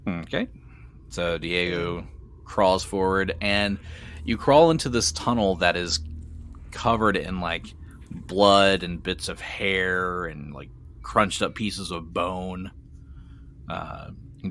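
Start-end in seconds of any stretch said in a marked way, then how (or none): 1.1-12.7 slow, deliberate description with pauses; game master narration. Acted. Game master describes Diego's crawl into the tunnel, deliberate narration. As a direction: dole out grisly details one by one.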